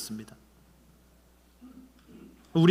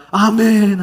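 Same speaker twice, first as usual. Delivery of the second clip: loud amen; 5 semitones higher, 10 dB louder, much slower than usual. Retold or imitated. Shouting amen after prayer.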